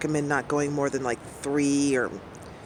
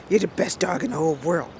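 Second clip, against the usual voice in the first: doggy voice; 2 semitones higher, faster than usual. Retold or imitated. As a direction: coo it like you're talking to a good boy. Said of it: "I'm doing my doggy voice".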